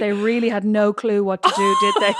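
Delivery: a hint of a smug listener; mock future listener. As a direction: voice ends in a big squeak on "did they". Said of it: "Someone's listening back to this going".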